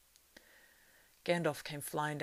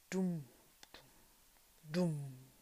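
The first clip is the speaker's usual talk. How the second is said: muffled drum beats; much slower than usual. A narrator's reading. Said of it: "went the drum beats again".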